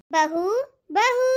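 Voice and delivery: calling from another room, rising. Acted. Mother-in-law calling out for daughter-in-law.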